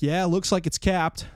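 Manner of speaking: lazy offhand repair guy; lightly hammed workman; mocking workers. Workers voiced again.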